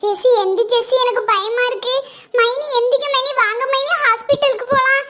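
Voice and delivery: shaking her awake in panic; frightened urging; frantic calling. Acted. Friend rousing fainted mother.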